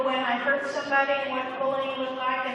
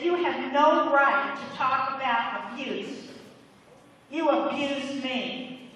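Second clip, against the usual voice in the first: slow, louder, accusing her face to face; retold angry accusation; 5 dB louder, slower than usual. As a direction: replay the woman's anger, slowly and pointedly. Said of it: "she was so angry".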